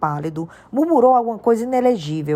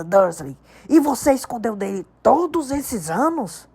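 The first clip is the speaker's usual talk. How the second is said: trembling with rage; 4 semitones higher, 3 dB louder than usual. A narrator's reading. Hagrid confronting Dursley over the hidden letter, raging. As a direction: let every syllable shake with anger. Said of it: "cada sílaba tremia de raiva".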